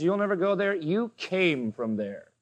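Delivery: Jesus quietly turning the boast on the Pharisees; quiet rebuke. Acted. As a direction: answer the boast with cold calm. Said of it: "Jesus says".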